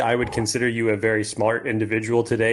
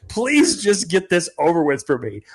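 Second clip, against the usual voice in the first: imitating pleading; 6 semitones higher, slower than usual. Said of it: "to just say".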